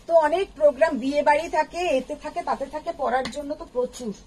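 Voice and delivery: hollow room echo on every word. Real, not acted. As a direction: voice echoing in a big room. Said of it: "তোমার কথা ইকো হচ্ছে গো।".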